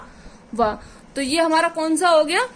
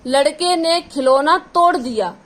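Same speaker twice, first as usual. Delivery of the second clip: spaced out and slow, word by word; teacher dictating the sentence slowly; slow example sentence; 3 dB louder than usual. Shown as a demonstration. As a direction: read the example slowly for the class. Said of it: "इसका example देखेंगे थोड़ा".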